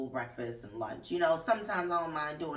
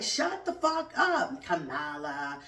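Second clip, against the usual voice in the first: mock snapping quote; 2 semitones lower, slower than usual. Host voicing Nikki Haley's imagined retort, mock snapping. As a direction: fling the retort like a rival would. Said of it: "She's like".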